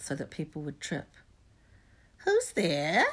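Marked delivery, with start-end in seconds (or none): 2.2-3.0 louder creature's sharp question; sudden challenge. A narrator's reading. Peeves hearing someone on the stairs, sudden challenge. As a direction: call it out suddenly, rising at the end. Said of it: "he said suddenly".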